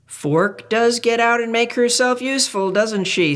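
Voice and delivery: high soothing parental answer. Acted. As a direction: agree gently like a parent. Parents voiced in story.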